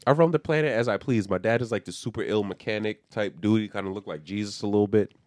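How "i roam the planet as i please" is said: put-on much higher, breezy, careless girl voice; lightly mocking teen girl voice; carefree wild girl. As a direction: play the wild daughter who does as she pleases. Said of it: "She's like".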